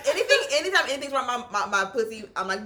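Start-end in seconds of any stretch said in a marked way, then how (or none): 2.6-2.7 drawn-out yell for your mother; acted cry for help; calling for mom.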